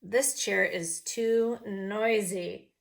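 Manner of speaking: slow, loud crying shout; noisy shout. Acted. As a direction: wail it out slowly over the noise. Bear testing chairs.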